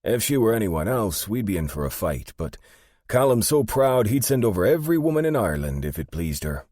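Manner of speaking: lively, emphatic explanation; Albie, amused and frank. Acted. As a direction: build to an emphatic high finish. Narrator voices Albie.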